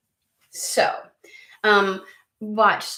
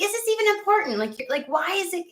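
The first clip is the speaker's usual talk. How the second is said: voicing the energy; 11 semitones higher than usual.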